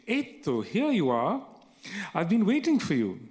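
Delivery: eager call. Acted. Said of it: "crying out loudly".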